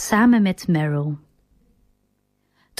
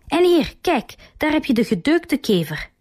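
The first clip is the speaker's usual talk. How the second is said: licht gespeelde roep, eerst hoger; opgewonden schreeuw; 6 semitones higher than usual. A narrator's reading. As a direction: roep het triomfantelijk uit, maar ingehouden. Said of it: "schreeuwt Truman". (Truman roept opgewonden naar zijn vrouw, een milde gespeelde schreeuw)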